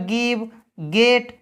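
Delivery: "गिव, गेट" each opening on hard g. Shown as a demonstration. Teacher listing exceptions for learners, "गिव, गेट" with hard g.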